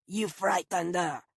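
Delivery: a growling reproach from the groundskeeper; accusatory. Acted. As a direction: guardian of the dog snapping back at the stranger. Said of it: "his tone accusatory".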